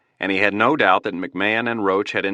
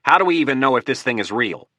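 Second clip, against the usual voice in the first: sharp, higher irritated snap; snapped; 6 semitones higher than usual. Acted. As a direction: bite the question off impatiently.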